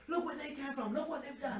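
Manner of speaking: high-pitched mock marvelling; mock awe. Marvelling at what the parents achieved, mock awe. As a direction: exclaim it high in playful, overdone admiration. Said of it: "because you're like".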